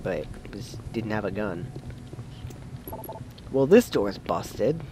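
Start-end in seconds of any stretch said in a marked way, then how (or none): 0.0-1.7 hushed whisper. Real, not acted. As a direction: whisper so the monster won't hear. Creepy enemy nearby.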